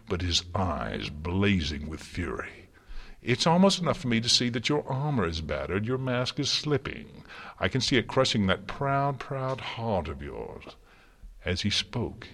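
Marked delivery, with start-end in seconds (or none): 3.2-10.6 higher, lightly theatrical taunting; gloating Discord. Acted. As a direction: savour her cracks as you speak. Discord taunts Celestia's slipping mask.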